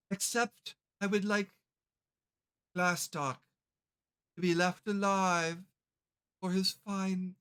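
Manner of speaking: a hint of a gloating lich; lich monologue. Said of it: "And he's like".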